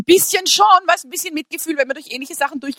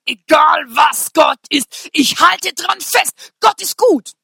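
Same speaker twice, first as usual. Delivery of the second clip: slow, loud proclamation of faith; drawn-out preaching shout; shouted declaration; 2 semitones higher, 4 dB louder, much slower than usual. Real, not acted. Preacher to congregation, proclaiming slowly and loudly.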